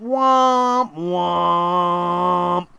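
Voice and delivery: two long droning notes, falling; mock sad-trombone womp. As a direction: imitate a disappointed game-show horn. Mimics a sad trombone in disappointment.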